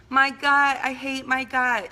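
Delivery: imitating disgusted mother. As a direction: squeal in disgust at her own body. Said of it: "She would always say she hates her gut".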